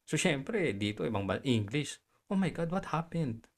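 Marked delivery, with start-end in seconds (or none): 2.3-3.5 softly, mildly startled; soft-spoken little reaction; small gentle voice. Retold or imitated. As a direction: say it small and mild, just surprised. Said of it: "Maliit yung boses ko, malumanay".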